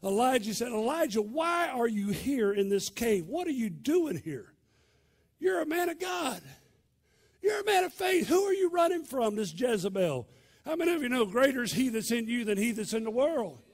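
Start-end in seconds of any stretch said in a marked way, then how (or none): 0.7-10.3 rising to a high shout; God's rebuke. Acted. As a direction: thunder it at him, rebuking. God rebukes Elijah in cave.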